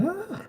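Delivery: a quick cartoon scream, half-hearted; mock Homer scream. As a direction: Homer Simpson shriek, lightly done. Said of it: "you ever hear a Homer screams".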